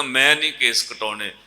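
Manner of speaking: building from plain to loud, high protest; shouting refusal. Acted. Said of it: "ਉੱਚੀ ਉੱਚੀ ਰੌਲਾ ਪਾਉਣ ਲੱਗ ਪਿਆ".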